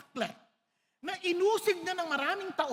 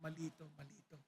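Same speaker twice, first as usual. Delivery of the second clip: near-tearful prayer; 10 semitones lower, 14 dB quieter, much faster than usual. Retold or imitated. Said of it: "Naiiyak ko sa kanya kaagad".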